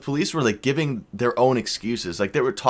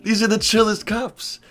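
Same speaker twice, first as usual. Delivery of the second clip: very high, stretched-out astonishment; floored, voice leaping way up; amazed disbelief; 12 semitones higher, slower than usual. Retold or imitated. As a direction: squeal it slowly in disbelief. His amazed reaction to lenient cops.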